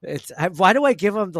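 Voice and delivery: ordinary delivery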